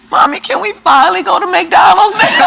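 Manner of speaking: put-on young son begging his mom for McDonald's; little boy asking. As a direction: voice a hopeful child, laughing. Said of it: "My son said".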